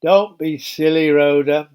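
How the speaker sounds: snapped. Acted. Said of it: "John Mark snapped".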